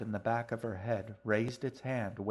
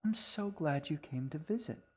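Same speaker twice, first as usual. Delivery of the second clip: higher, warm and smiling; warmly smiling; 6 semitones higher than usual. A narrator's reading. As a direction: welcome her with a warm smile. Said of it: "Winterly smiled warmly".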